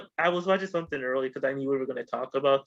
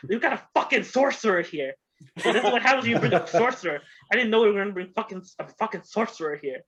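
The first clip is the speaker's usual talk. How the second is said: higher and fast, laughing through it; excited laughing rant; 5 semitones higher, faster than usual. Retold or imitated. Telling friends about the surprise sorcerer, excited and laughing. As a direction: rattle it off, amused and higher. Magician bit retold, laughing.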